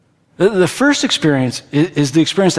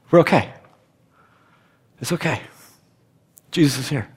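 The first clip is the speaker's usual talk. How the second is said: hushed reassurance; 5 semitones lower, 5 dB quieter, faster than usual. Acted. Preacher assuring the congregation of peace, hushed and calm. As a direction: let the peace settle quietly.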